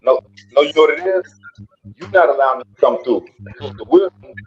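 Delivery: distant, off-mic voice; speaking away from the microphone; far from mic. Real, not acted. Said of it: "it sound like you far away from your mic".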